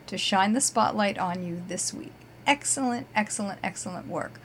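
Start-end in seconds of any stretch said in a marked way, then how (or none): 2.5-4.4 smiling voice. Real, not acted. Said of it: "Can you hear me smiling on the air?".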